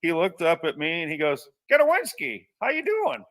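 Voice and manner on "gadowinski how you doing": hearty greeting. Retold or imitated. Boss spots his former worker and calls out, booming. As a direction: boom out a delighted hello to an old employee.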